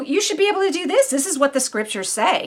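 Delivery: high, fast, pushy tempter's goading; taunting Satan. Retold or imitated. Satan's taunt voiced again.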